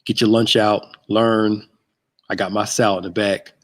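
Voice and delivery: ordinary talk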